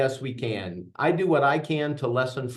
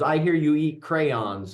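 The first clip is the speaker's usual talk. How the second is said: slow mock taunt; 4 semitones higher, 3 dB louder, slower than usual. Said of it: "and then she says".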